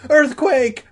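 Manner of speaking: high urgent alarm call; loud shout. A narrator's reading. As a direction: yell the warning. Repeated alarm, first take.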